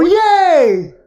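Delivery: high, loud cheer of welcome; excited yay. Shown as a demonstration. Pastor contrasting an excited church greeting with a dull one. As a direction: burst out with delight. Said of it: "You've got your option".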